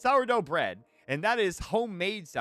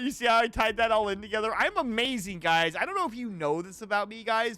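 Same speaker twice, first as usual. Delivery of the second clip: bitchy voice; 3 semitones higher than usual. Pretend. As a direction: show off like a diva. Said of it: "do you like my bitchy voice?".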